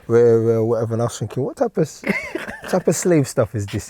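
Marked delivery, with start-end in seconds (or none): 1.4-3.9 laughing through words. Retold or imitated. Retelling absurd audition, laughs.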